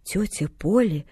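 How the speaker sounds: slow, separated words in disbelief. A narrator's reading. Man horrified by the girl's idea, word by word. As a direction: space out each word, aghast. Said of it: "раздельно проговорил он".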